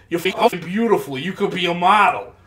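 mock hostile, combative, aggressive angry tone. Retelling how someone complimented a stranger: imitating an aggressive tone. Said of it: "an aggressive tone and, like, anger on his face".

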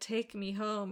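very sultry, seductive, spooky, lounging voice. Retelling a woman in white climbing in for a ride home; imitating a sultry voice. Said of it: "she's saying in this very sultry way".

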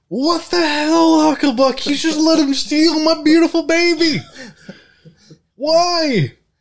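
furious, shrill, very loud yell, drawn-out "why". After shotgunning a beer, confront hucklebuck for letting your car be stolen, yelling out. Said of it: "I yell out".

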